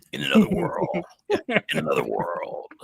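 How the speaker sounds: film trailer narrator voice. Describing how someone always talks, doing a movie trailer voice. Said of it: "he's like trying to do the trailer voice".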